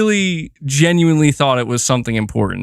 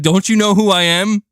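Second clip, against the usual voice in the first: mock arrogant; 5 semitones higher than usual. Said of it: "I should have said".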